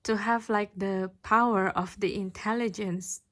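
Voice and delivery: pushing through a lump in the throat; emotional. Real, not acted. Tarot reader moved while describing unconditional love, choked up. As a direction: voice catching with sudden emotion. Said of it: "I don't know why I'm so emotional all of a sudden".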